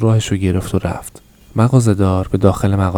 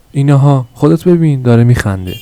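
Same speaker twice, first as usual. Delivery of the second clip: higher, louder exclamation of surprise; astonished cry; 6 semitones higher, 6 dB louder than usual. A narrator's reading. Old customer pointing out the baby's smile, astonished cry. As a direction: cry out in amazement, voice jumping up. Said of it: "با تعجب فریاد زد".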